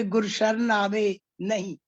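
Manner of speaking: slow, "आवे नहीं" as one unit; नहीं joined to आवे. Shown as a demonstration. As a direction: recite slowly, closing the phrase on "नहीं". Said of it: "अगर हम ऐसे कहें कि".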